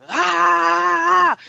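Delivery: a sudden high, loud shout; loud booming shout. Shown as a demonstration. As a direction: show off the big untamed voice. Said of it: "'Cause I used to".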